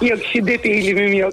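words pushed through clenched teeth; gritted teeth. Real, not acted. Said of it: "dişleri sıkarak söylediniz de".

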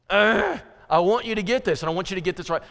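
exasperated "Ugh", pressing the point; insisting. Retold or imitated. Preacher acting out an insistent teacher, exasperated. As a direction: urge them with a groan to finally get it. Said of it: "You know what it is to insist?".

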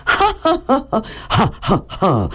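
Ha panted with lots of air, like being out of breath; breathy H drills. Shown as a demonstration. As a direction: pant the H sounds out. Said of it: "mettez beaucoup d'air dedans". (halètements sur le H, beaucoup d'air)

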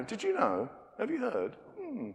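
hushed gossip, rising high; church gossip. Retold or imitated. Church member spreading a rumour to a friend, hushed and high. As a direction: lean in and pass on a rumour in a hush. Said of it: "the famous Christian line".

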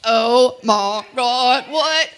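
shocked. Real, not acted. Shocked reaction to wife's remark.

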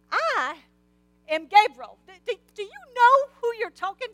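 mock-majestic I am Gabriel; commanding angel. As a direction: announce the name with weight. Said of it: "this is how he said it".

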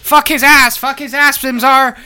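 rowdy frat bro shouting. Pretend. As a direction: hype it up like a frat party. Party aliens chanting.

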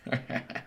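high breathy cackle; witchy cackle. Real, not acted. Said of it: "What was that fucking cackle?".

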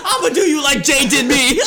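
hammed-up vengeful boss; mock threat. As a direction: threaten him while cracking up. Acted boss threat, laughing.

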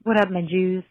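put-on British accent as a joke reporter; half-hearted British reporter voice. Caller voicing a report from Michigan in a British accent. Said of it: "Don't know why I did a British accent".

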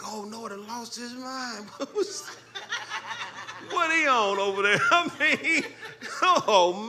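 high laughing mock ridicule; mocking laughter. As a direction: laugh at Noah like a scoffer. Mocking Noah's neighbours, laughing.

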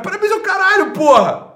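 high, loud angry retort; furious shout. Real, not acted. Snapping back at Jorge's congratulations, furious shout. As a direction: spit the word back at him.

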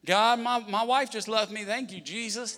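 sarcastic thanks. Pretend. Pastor mocking a thankful prayer, sarcastic. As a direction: sarcastically thank God for the bad news. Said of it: "the last thing you'll do is be like".

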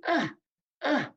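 mock pained grunts, short and clipped; imitated groans. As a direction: imitate a wrestler groaning under a hold.

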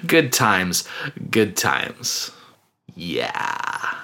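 sinking from forced cheer to an awkward mumble; awkwardly fading mirth. Retold or imitated. Forced mirth dies away awkwardly.

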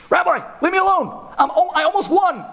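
put-on a kid too busy to be bothered; absorbed kid. Absorbed kid brushes rabbi off.

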